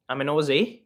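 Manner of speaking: attempted Australian accent. Shown as a demonstration. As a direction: have a go at sounding Aussie. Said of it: "Do some Australian".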